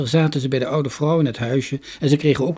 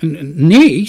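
timid stammer; 5 semitones higher, 12 dB louder, slower than usual. A narrator's reading. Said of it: "werd een beetje bang".

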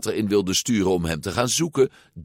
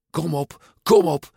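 tag; 9 semitones higher, 4 dB louder than usual. A narrator's reading. Character urging himself while struggling.

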